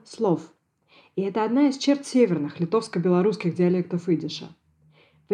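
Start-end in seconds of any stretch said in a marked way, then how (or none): 0.1-0.4 "слов" opening on s; s sound in слов. Shown as a demonstration. Linguist cites the singer's northern form, "слов" with s. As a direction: say "слов" with s instead of sh. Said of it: "поёт Раиса Семёновна".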